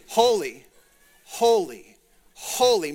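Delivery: each "holy" set apart and weighty; emphatic repetition. Shown as a demonstration. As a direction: say "holy" three times, each its own emphatic beat. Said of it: "getting larger and larger".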